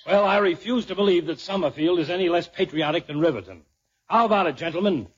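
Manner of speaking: rabble rouser. Acted. Mayor rallying commissioners to patriotism.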